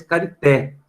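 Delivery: "carité" in French, stress on the final té; French pronunciation. Shown as a demonstration. Teacher reading the French word to students, French pronunciation. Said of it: "no francês".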